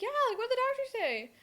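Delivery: high, put-on voice; high-pitched imitated daughter reply; retold anxious question. Acts her reply to mom.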